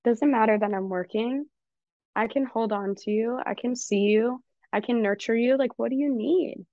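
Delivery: put-on nurturing parent voice comforting a scared child; tender comforting. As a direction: comfort your inner four-year-old gently. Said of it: "I would be like".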